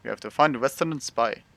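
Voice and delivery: a hint of a hammed-up Russian accent; playing the comrade in a light Russian accent; mock Russian accent. Gamer joking to viewers in a faint mock Russian accent. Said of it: "I'm not really good with a Russian accent".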